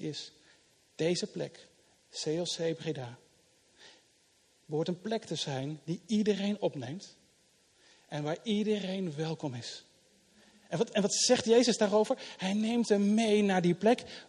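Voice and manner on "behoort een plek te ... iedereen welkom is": iedereen twice leaned on; stress on iedereen. Acted. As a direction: hammer home iedereen, twice. Preacher stresses everyone welcome. (nadruk op "iedereen", telkens)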